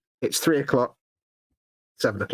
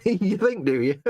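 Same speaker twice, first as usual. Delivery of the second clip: mocking body voice; 5 semitones higher, slower than usual. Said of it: "Your body's like going".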